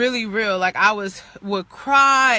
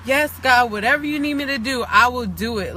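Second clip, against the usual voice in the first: real holy; 2 semitones higher than usual. Shown as a demonstration. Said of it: "we get real holy real quick when we talking to God".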